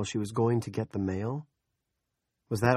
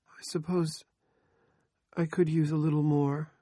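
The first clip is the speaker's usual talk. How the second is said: dully; 8 semitones higher than usual. A narrator's reading. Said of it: "Andrea said dully".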